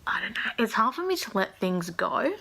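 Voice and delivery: teary, breaking whisper; real emotional hush; choked whisper. Real, not acted. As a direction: hold back the tears as you say it. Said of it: "I'm gonna get really emotional".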